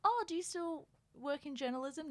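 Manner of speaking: fake polite. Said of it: "politely was like".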